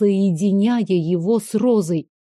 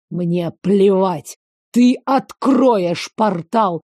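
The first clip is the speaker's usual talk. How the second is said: slow angry command; 2 semitones lower, much slower than usual. Acted. Veyen orders her to open the portal, slow and angry. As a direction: force each word out.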